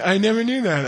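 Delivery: high, startled admission; amazed realization. Retold or imitated. Teacher realizes he never knew, high and surprised. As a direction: say it as a sudden discovery. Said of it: "And he's like".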